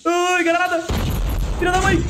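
sudden high startled yelp; panicking gamer. Real, not acted. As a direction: jolt up in pitch at a grenade. Grenade lands next to him.

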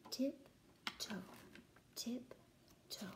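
hushed whisper; whispered tiptoe. Acted. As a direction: whisper like sneaking past. Sneaking back through cave.

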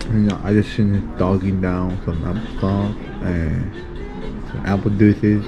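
slurred, numb lips after surgery; numb mouth. Real, not acted. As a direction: talk through a numb, anaesthetised mouth. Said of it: "I can't even talk".

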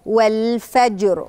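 والفجر with a thick, emphatic final r; slow والفجر ending on a heavy rolled r; heavy final raa. Shown as a demonstration. Teacher showing the heavy r in والفجر. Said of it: "يبقى هقول إيه؟".

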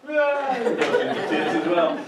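laughing through the words. Real, not acted. Storyteller cracks up at the silly family, laughing. Laughing as narrator tells tears.

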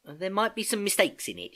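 mild nerves, offering work for judgement; a little nervous. A narrator's reading. Niece showing her folder to uncle, a little nervous. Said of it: "She looked a little nervous".

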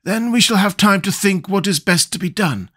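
high-pitched character voice for a scarecrow; high, measured storybook Scarecrow; composed Scarecrow. Acted. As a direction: speak up high as the deliberating Scarecrow.

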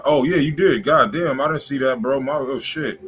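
normal talking voice

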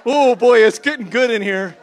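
high, loud, laughing burst of joy; excited shout. Real, not acted. Preacher to the congregation, a loud excited laughing shout. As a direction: cry out over the room, thrilled and laughing. Excited outburst in worship moment.

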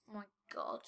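whispered "oh my god". Real, not acted. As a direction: breathe it out in dread. Creeped out, whispering.

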